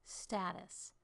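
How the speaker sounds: "Status" with stressed STA, short unstressed ending; first-syllable stress. Shown as a demonstration. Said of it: "Stressed syllable and then unstressed".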